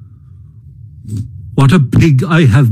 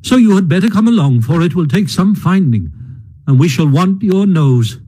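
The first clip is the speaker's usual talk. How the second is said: lightly voiced Rat, kind and brisk; pleasantly. Rat telling Mole they will find his home, pleasant. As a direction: reassure him with a smile in the voice. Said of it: "replied the Rat pleasantly".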